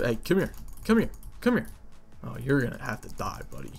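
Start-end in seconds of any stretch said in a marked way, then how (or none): none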